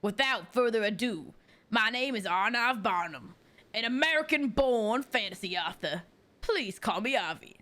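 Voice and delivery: dramatic flair. Acted. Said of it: "a little dramatic flair".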